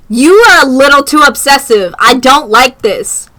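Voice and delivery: real exasperation at him; annoyed. Real, not acted. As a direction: let your irritation show. Annoyed at character.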